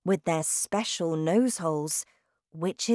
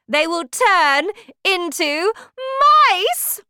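shouting witch; 6 semitones higher, 8 dB louder than usual. Acted. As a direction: bellow like a terrifying witch queen. Witch explains her plan.

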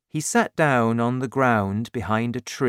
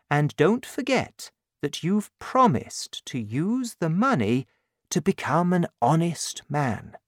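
earnest bishop; 5 semitones higher than usual. Acted. Bishop charges Valjean.

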